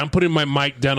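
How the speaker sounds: usual speaking voice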